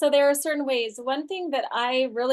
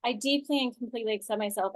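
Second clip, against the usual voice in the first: softer, quicker recited affirmation; self-acceptance affirmation; 4 dB quieter, faster than usual. Shown as a demonstration. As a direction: recite it softly to yourself. Repeats the tapping affirmation.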